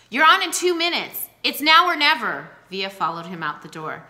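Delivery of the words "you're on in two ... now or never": hush shouting. A narrator's reading. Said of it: "hush shouting from the door".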